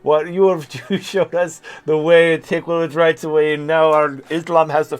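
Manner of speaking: botched Taliban voice slipping into Jamaican; Jamaican-sounding Taliban accent. Pretend. Taliban guy thanking the streamer, mock Jamaican accent. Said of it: "my Taliban is a Jamaican accent".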